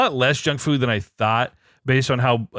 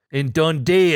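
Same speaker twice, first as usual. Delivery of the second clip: best attempt at an Australian accent; lightly put-on Australian accent, a bit louder than the chat; 3 semitones higher, 3 dB louder than usual. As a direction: try your best amateur Australian. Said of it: "my best Australian accent".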